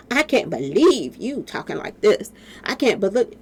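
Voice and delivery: a lightly voiced scolding troll; a hint of a prissy critic clutching pearls; mocking troll voice. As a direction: parody the outraged commenter, faintly put-on. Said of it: "they always send their little trolls over".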